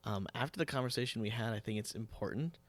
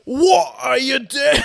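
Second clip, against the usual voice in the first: high, slow, loud Scottish shout; Shrek Scottish yell; 13 semitones higher, 20 dB louder, slower than usual. Retold or imitated. Guest and host play Shrek, shouted in a Scottish accent. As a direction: bellow it like an ogre. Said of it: "That's my Scottish accent".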